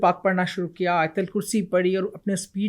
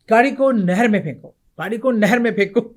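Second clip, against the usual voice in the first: the same order, now pressing and a bit louder; insistent voice in her head; 4 dB louder than usual. Retold or imitated. The voice in her head pushes her harder, insistent and louder. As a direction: repeat it harder as the pressure builds. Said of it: "brain میرا capture ہے پوری طرح".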